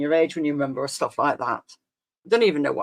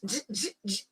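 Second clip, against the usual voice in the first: imitated record scratch; 3 semitones higher, 12 dB quieter than usual. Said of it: "my records were going".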